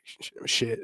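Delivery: breathy mock whisper of shock; whispered under the breath; whispered curse. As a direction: hush it like you're caught out. Whispered reaction in story.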